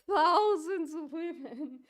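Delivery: high, drawn-out mock repetition of a claim; mocking quote. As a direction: stretch it out in ridicule. Mockingly repeats the opponent's claim.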